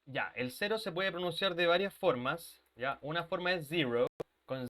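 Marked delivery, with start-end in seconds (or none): 3.7-4.1 zero with a buzzed Z; vibrating Z. Shown as a demonstration. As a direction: model zero with a voiced, vibrating Z. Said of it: "Tiene que existir esa vibración".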